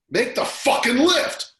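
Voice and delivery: fierce, high, slow shout; wife's yell. Retold or imitated. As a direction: bark the order at him full force. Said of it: "she leans over and goes".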